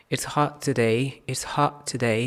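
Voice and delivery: hot with the t swallowed before today; teacher shows the dropped t; dropped final t. Shown as a demonstration. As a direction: drop the t in hot. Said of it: "हॉट से हा".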